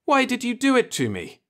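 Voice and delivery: high-pitched, pleading demand. A narrator's reading. Murdered pilot to his killer, high urgent demand. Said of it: "demanded Marlowe".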